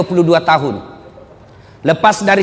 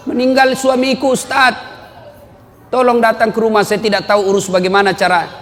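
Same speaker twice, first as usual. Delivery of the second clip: widow begging; 5 semitones higher than usual. Retold or imitated. Widow begs the preacher.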